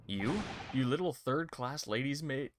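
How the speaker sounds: hostile sailor in a lightly put-on Russian accent. Surly sailor insults the stowaway, lightly Russian-accented. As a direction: sneer it like a surly Russian crewman.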